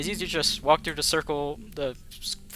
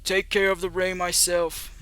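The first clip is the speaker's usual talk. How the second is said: loud, higher firefighter voice slipping through; 5 semitones higher, 4 dB louder than usual. Acted. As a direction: announce it like a firefighter at a fire scene. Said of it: "I switch back to the firefighter voice".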